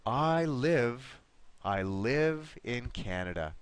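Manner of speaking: "live" said with a clear short I, as in "give"; short I sound. Shown as a demonstration. Teacher demonstrating for Miguel, "live" with clear short I. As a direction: carefully model "live" with its short vowel. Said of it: "it's gonna be like this".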